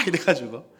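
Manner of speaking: ordinary delivery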